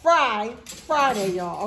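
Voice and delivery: slow, stretched hype call; drawn-out announcement. Real, not acted. Vlogger hyping Friday dinner to viewers, slow and stretched. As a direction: savor each word like a celebration.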